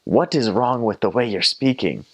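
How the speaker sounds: imitated family's incredulous question; baffled family. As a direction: question it like bewildered relatives. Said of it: "my family goes".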